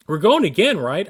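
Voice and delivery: eager question. Retold or imitated. Friend Kazuki in the lobby, eagerly asking to ride again. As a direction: push for another ride, grinning.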